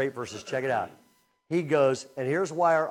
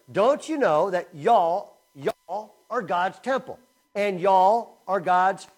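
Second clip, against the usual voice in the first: loud, slow, raised pitch, leaning on "y'all"; emphatic proclamation; 4 semitones higher, 9 dB louder, slower than usual. Acted. Preacher rereading the verse with "y'all" for the crowd, emphatic. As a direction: drive the reworded verse home.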